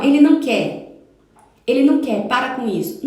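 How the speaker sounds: mock-scold the kid who won't hug; scolding parent.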